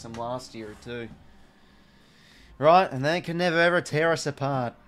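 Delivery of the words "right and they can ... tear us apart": defiant boast. Real, not acted. Defiant fan boast on stream.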